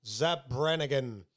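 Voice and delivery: slow, drawn-out cartoon impression; lightly put-on, slow cartoon voice; Zap Brannigan. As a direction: stretch the name out in character. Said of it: "you could do more of a Zap Brannigan".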